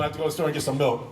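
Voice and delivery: fast, lightly voiced Katie Cassidy; Katie Cassidy impression. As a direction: race through it as a hint of Katie. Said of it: "Katie Cassidy doing".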